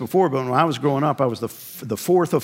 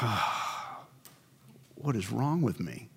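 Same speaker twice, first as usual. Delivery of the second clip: 1 mock anguished groan; 3 semitones lower, 11 dB quieter, slower than usual. Guilt-ridden inner cry voiced.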